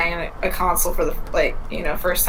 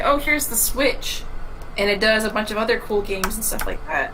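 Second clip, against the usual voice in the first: excited pitch; 2 semitones higher than usual. Pretend. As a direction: sell it with enthusiasm. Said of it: "if you were to say".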